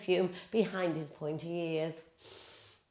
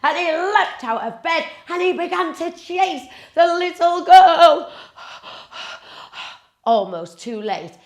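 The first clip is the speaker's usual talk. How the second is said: loud, rising chase narration; excited narration; 9 semitones higher, 12 dB louder than usual. A narrator's reading. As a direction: build the chase loudly.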